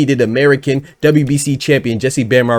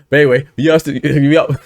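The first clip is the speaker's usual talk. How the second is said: laughing. Real, not acted. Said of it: "I don't know why I just, just laughed".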